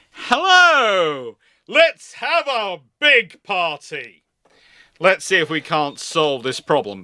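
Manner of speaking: a commander booming friendly but firm; jovial squadron commander. Retold or imitated. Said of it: "squadron commander in his flagship will turn up and go".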